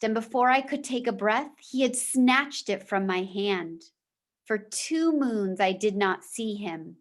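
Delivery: steady storytelling voice for a class; reading a chapter aloud to the class; story read-aloud. A narrator's reading. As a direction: read the novel to the students. Teacher reads novel aloud.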